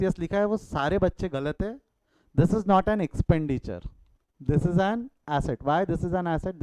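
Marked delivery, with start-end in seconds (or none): 2.4-6.6 slow, deliberate definition; slow dictation. Shown as a demonstration. Teacher dictating why the register is an asset, slow and clear. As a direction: lay out each word for the notes. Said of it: "Definition समझो बेटा".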